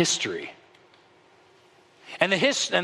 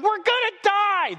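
much higher, frantic mock wail; panicked cry. Fishermen in mid-storm cry out in mock panic. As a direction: cry out like doomed sailors. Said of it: "they're going".

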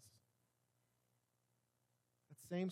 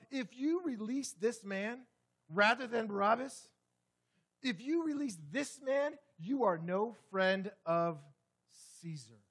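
crowd's threat; 4 semitones higher, 7 dB louder than usual. Retold or imitated.

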